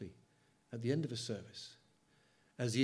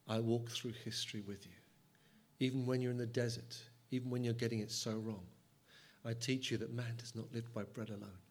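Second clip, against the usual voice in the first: voicing God. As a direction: speak as a tender God, often hushed. Preacher speaking as God.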